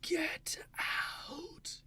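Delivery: high, airy ghostly whisper; hissed ghost warning, very high; ghoul voice. Shown as a demonstration. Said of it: "creates that kind of ghoulish touch".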